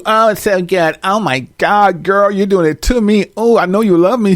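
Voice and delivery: lightly mocking a man who moans like a woman; moaning man. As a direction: ham up a man carried away in bed. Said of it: "he like you".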